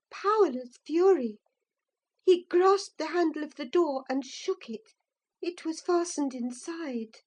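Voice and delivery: ordinary delivery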